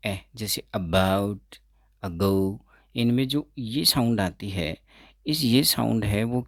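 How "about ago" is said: "about" and "ago" with a weak uh sound at the start; schwa sound demo. Shown as a demonstration. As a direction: stretch the weak first vowel of "about". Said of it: "ए की sound". ("about" में हल्की ए की आवाज़)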